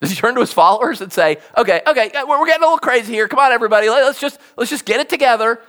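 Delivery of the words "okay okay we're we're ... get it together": hurried, placating imitation of settling a crowd; mock calming down. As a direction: play at reining in excited followers. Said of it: "You gotta calm everybody down".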